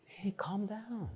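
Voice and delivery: hushed, slow, soothing words; soft fatherly hush; calming father. Retold or imitated. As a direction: settle a panicking child gently. Father calming his daughters.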